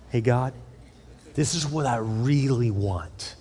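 hushed, slow confiding prayer; secret prayer. Pretend. Believer privately confiding a secret wish to God, hushed. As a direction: ask God quietly so nobody hears.

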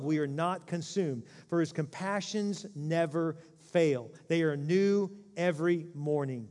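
scripture reading. Acted. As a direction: lay each phrase down slowly like a sacred text. Reads Lamentations scripture aloud.

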